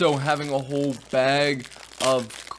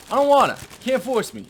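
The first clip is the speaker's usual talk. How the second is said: loud, higher-pitched playful refusal; mock protest; 9 semitones higher, 8 dB louder than usual. Reviewer balking at being in charge of cookies, mock protest. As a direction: refuse like a balky kid, playfully.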